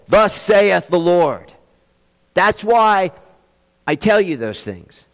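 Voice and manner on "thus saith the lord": oracle proclamation. Shown as a demonstration.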